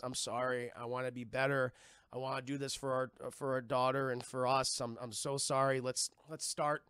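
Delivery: low, stammering husband's apology; halting, remorseful retold plea; pleading apology. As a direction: stumble over an earnest plea to reconcile.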